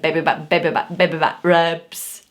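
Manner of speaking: demonstrated Glaswegian accent; playful mock-Glaswegian chant; Scottish accent. Shown as a demonstration. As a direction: show off a put-on Scottish accent. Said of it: "So I can do it".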